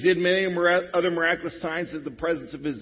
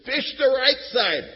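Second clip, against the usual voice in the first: loud, higher call across the water; Jesus calling out; 9 semitones higher, 7 dB louder than usual. Acted. Jesus calls to fishermen from shore, loud call.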